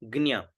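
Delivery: ज्ञा said as "gnya", with an n sound; pronunciation model. Shown as a demonstration. Teacher shows how ज्ञा is said, "gnya" clearly modelled. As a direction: say ज्ञा as gnyaa. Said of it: "इसको हम उच्चारण करेंगे ज्ञा".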